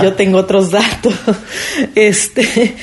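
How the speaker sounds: a light, laughing hint of the president's catchphrase voice; mock presidential quip, half laughing; López Obrador impression. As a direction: toss off the politician's famous line with a chuckle. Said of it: "diría López Obrador".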